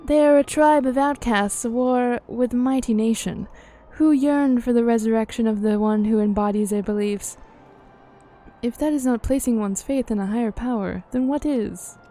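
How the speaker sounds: emphatic, formal fantasy character reading; game dialogue read-aloud. Acted. Character arguing about faith to Minfilia, formal dialogue reading.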